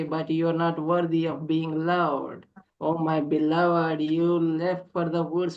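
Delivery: lyrical, longing poem reading; yearning poem recitation. Acted. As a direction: recite it like a lament to a lost love. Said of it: "can we call upon you to read a poem".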